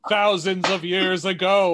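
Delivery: intoned cartoon ghost voice; mock-epic storytelling imitation; portentous ghost narration. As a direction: chant it like an ancient tale. Quoting the Cybernetic Ghost's long tale.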